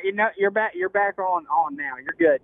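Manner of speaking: over a speakerphone; phone speaker. Real, not acted. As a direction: speakerphone audio. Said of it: "we're on speakerphone now".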